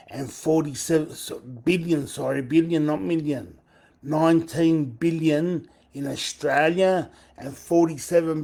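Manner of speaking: loud, urgent reading of the amounts; excited figures. Real, not acted. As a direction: stress every number hard.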